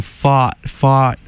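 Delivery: "fought" said slowly with no r; open-vowelled "fought", repeated as a demo. Shown as a demonstration. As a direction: test out "fought" as fart without the r. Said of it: "saying this with me".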